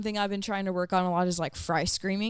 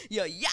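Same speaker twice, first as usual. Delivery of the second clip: fry scream demo. Shown as a demonstration. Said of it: "and do like that".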